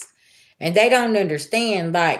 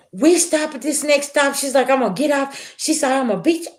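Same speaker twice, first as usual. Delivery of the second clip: put-on higher, heated threat from the young mother; retold snapping; 7 semitones higher than usual. Young mother snaps at the spraying woman, heated threat. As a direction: snap the threats out, pitched up. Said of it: "she snapped".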